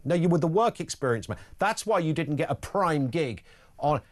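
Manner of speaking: mock exasperation, firmer and falling; exasperated correction. Colleague setting a passed-over complainer straight, exasperated. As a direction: spell out the obvious to a deluded complainer.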